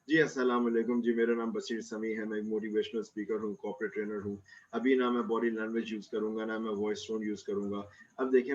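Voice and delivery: low, soft monotone with no variation. Shown as a demonstration. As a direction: drone on in one tone to show boring speaking. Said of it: "एक ही tone में जो बात करते हैं".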